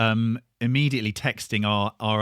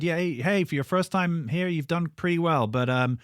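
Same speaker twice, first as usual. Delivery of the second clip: promoter voice; 3 semitones higher than usual. Retold or imitated. Promoter voiced in band story.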